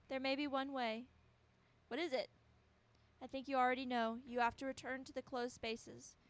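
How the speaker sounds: earnest acted character dialogue; voice-over style dialogue read; dramatic game dialogue reading. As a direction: read the characters' lines with feeling. Reads game dialogue aloud.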